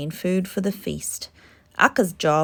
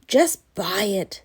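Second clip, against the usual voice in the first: impatient snap; 3 dB louder than usual. Acted. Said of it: "snapped Bala impatiently".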